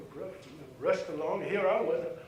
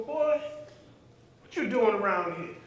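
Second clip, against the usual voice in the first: mock challenge; 4 semitones higher, 4 dB louder than usual. Teller re-enacts the teenager confronting him, mock shout. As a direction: repeat the teen's challenge, louder and higher at first. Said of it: "I go".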